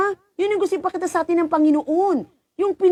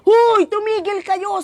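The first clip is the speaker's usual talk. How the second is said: higher and slowed, a firm call to stop; stern call to stop; 5 semitones higher, slower than usual. Retold or imitated. The priest stopping the fighting husband and wife, firm call. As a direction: break up the fight with one command.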